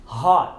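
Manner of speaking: "hot" with no released T; silent final T. Shown as a demonstration. Teacher models "hot" for learners, T unreleased. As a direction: stop "hot" on the vowel. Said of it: "silenciamos o T quando a palavra termina".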